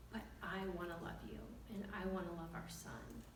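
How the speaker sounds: soft, gentle declaration; retold tender plea. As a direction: quietly plead as a repentant husband. Husband's tearful-sincere plea retold.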